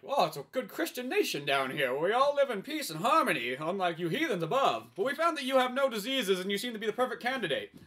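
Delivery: pious leader. Acted. Underground leader addresses captive.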